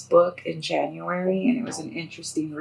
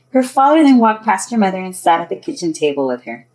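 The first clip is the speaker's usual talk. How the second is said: louder, projected storytelling voice; story narration; 2 semitones higher, 10 dB louder than usual. A narrator's reading. Author tells of two girls waking, story narration. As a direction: read it out clearly as a storyteller.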